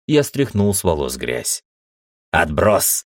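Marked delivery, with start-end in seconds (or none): 2.3-3.0 exhaled angrily. Acted. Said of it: "выдохнул мужик".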